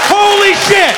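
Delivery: very high-pitched amazed cry; exultant, drawn-out disbelief; astonished delight. Acted. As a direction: exclaim like it's the best thing ever. Amazed at cop's term.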